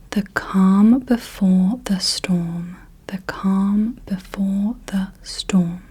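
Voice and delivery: drawn-out whisper for counting syllables; slow, measured whisper. Shown as a demonstration. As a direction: whisper it very slowly, word by word. Phrase given for counting syllables.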